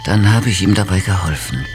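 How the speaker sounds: Prinzessin, die stockend von ihrem Erlebnis berichtet; mädchenhaft erzählen, mal zögernd, mal aufgeregt; kindliche Prinzessin, erzählend. Acted. (naive Prinzessin im Erzählton)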